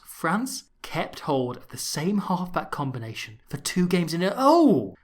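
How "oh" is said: mock surprise. Sudden fake realisation.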